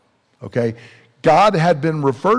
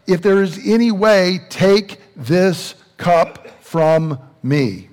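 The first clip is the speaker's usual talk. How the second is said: imitated plea, starting higher, then slowing right down; retold pleading cry; 3 semitones higher, slower than usual. Jesus asking the Father to take the cup, retold as a slow plea. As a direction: plead earnestly as a quote, drawing out the last words. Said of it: "he's crying out, and he's asking".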